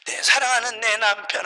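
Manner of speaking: mildly mimicked tearful pleading; tearful prayer. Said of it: "하면서 우는 거예요".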